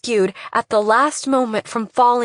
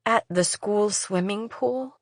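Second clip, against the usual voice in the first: husky; 6 dB quieter than usual. Acted. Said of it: "My voice was husky, too".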